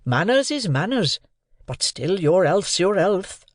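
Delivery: slow earnest Joe. A narrator's reading. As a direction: lay down the homely rule gently. Joe lecturing the boy.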